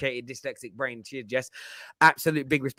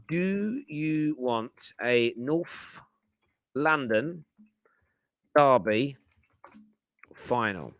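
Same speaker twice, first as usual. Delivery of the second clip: very slow, with long gaps between words; 3 dB quieter, much slower than usual. Real, not acted. Host typing a poll for viewers, slow word by word. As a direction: spell it out slowly as if typing.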